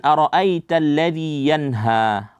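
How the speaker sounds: slow recitation, "ara'aita" with a heavy ra; thick ra. Shown as a demonstration. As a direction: round the ra in "ara'aita" dark and full. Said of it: "Ra itu dibaca tebal".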